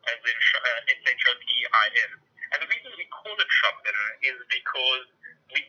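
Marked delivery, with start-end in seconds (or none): 0.4-2.1 Sh- then S H O P I N letter by letter; spelling it out. Shown as a demonstration. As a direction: spell out S H O P I N clearly. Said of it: "Actually, it's pronounced Shopin, as in".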